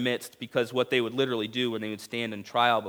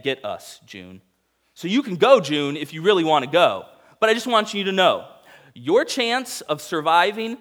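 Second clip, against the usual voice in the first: much higher and louder, hammed-up action hero; overacting Tom Cruise; 5 semitones higher, 7 dB louder than usual. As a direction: ham it up like a movie star pleading. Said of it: "Tom Cruise overacting".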